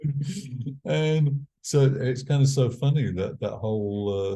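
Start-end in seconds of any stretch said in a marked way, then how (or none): 0.0-0.8 high, drawn-out northern English imitation; slow mimicked northern English greeting, pitched up; a rock singer's northern accent. Rocker coming along to say hello, imitated northern accent. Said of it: "in his northern accent".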